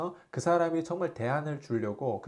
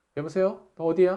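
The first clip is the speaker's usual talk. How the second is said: casual, offhand everyday tone, voice raised; 5 semitones higher, 7 dB louder than usual. Showing how you usually phone your own child, casual like calling your kid. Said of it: "애한테 전화하면 보통 어떻게 전화해요? ... 이렇게 할 거 아니에요".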